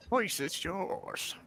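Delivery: mock villain echo; echoed ominous line. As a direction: repeat it eerily slow.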